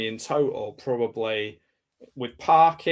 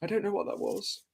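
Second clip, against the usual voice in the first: imitating the dean; 8 semitones higher, 7 dB quieter than usual. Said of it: "he's like".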